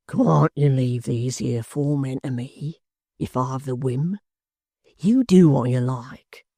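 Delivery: lightly voiced pleading hangman; sly plea. Hangman pleading for his share.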